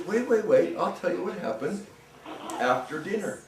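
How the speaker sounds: calm them down with a playful ghost tone. Acted. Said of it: "And the ghost says".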